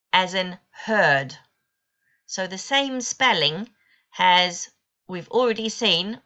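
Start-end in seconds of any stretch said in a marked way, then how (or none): 0.1-1.4 slow example. Shown as a demonstration. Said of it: "In the long vowel sounds".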